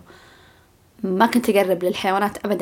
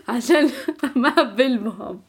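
laughing; 3 semitones higher, slower than usual. Real, not acted. Laughing at her friends' reaction.

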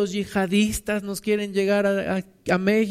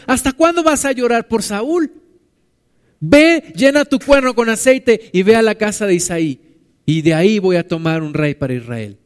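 God's loud rebuke; 2 semitones higher, 6 dB louder than usual. Acted. Preacher voicing God rebuking weeping Samuel, loud and stern. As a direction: command him to go, with force.

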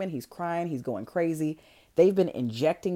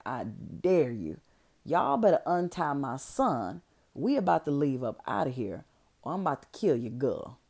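threat; 3 semitones lower than usual. Retold or imitated. Mom threatens doctor with dagger.

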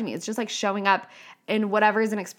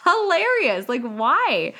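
excited realization; 4 semitones higher than usual. Retold or imitated. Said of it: "And I was like".

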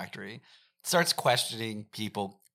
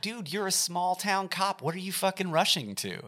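higher, incredulous jab at the cop; mock exasperated; 5 semitones higher than usual. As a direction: scoff at him, pitched up. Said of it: "And I'm like".

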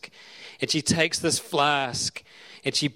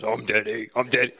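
quoting the daughter; 3 semitones lower than usual. Retold or imitated. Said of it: "So Elena goes".

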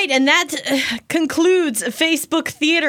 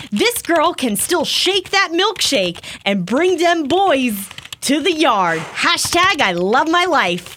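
Amber. Acted. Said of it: "I will play Amber".

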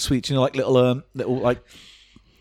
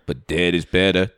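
sinister magician; 3 semitones lower than usual. Acted. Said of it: "This is my new character".

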